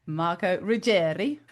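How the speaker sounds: a light, drawn-out Italian accent on the surname. Shown as a demonstration. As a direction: say the name slowly with a touch of Italian. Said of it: "do your accent with an Italian".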